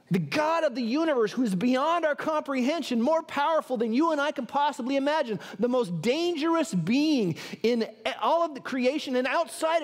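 sermon in full flow; emphatic preaching. Real, not acted. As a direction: preach it with conviction, leaning on key words. Preaches to congregation with rising force.

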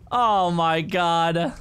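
very slow, stretched groan of words; drawn-out dismay. Real, not acted. Player realizing the setback, dismayed. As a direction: drag every word out in dismay. Dismay at being sent back.

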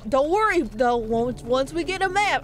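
put-on lively ranch-hand country accent. Streamer reassures viewers about finding a map, country accent. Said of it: "putting on an accent".

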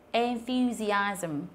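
enthusiasm drawn out syllable by syllable; en-thu-si-asm, each part held; slow model word. Shown as a demonstration. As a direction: stretch out enthusiasm very slowly. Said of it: "ví dụ như là từ".

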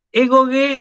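egoge drawn out slowly and pitched high; Greek egoge. Shown as a demonstration. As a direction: stretch every syllable of egoge up high. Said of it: "esta afirmación que es egoge".

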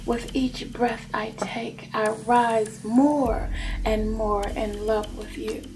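slow, measured vow of love; slow declaration of devotion; love confession. Acted. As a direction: recite a love vow, taking your time. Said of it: "Person like".

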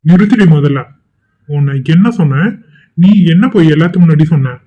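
furious interrogation, held in check; accusing, irritated confrontation; angry. Acted. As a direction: demand an answer in anger. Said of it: "என் மேல இவ்ளோ கோவப்படுறீங்க".

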